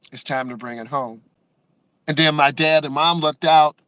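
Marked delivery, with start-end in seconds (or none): 0.1-1.2 to himself. Retold or imitated. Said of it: "I said to myself".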